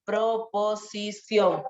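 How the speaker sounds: "Proposición" broken into slow syllables. Shown as a demonstration. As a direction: draw out "Proposición" with a clear PRO. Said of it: "Acuérdate, con la O".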